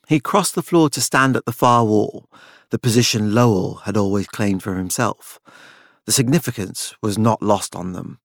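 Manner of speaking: ordinary delivery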